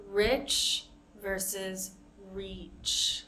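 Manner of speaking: teacher contrasts "Rich" and "reach."; short vs long i. Shown as a demonstration. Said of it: "A good way to practice is with the E sound".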